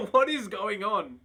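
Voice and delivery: laughing disbelief. Real, not acted. Laughing at absurd player stats.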